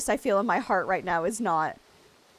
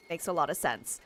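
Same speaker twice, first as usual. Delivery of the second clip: ordinary delivery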